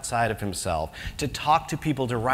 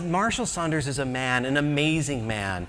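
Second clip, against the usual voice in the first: mock preacher; 2 semitones lower, 3 dB quieter than usual. Mock evangelist pitch, hushed.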